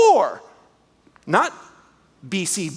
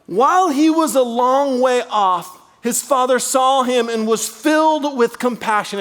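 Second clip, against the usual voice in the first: raised, earnest Bible reading; scripture reading; 3 semitones higher than usual. Acted. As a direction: read the verse with feeling. Reads scripture aloud.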